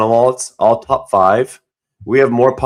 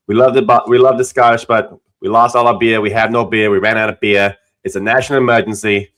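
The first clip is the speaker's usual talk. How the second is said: put-on light Boston accent, dropped r's. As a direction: beer as bee-ah, Boston style. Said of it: "do your Boston accent again".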